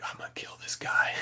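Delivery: hushed threat meant only for your wife; seething whispered aside; fuming whisper. Retold or imitated. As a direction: whisper it through held-back anger.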